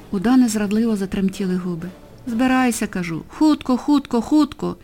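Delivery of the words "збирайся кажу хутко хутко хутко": calm but firm order. Acted. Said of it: "повторив поліцейський спокійно".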